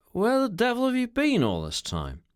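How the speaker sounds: high-pitched, exasperated questioning; irritated demand. A narrator's reading. Mister Jones scolds his late secretary, irritated and high.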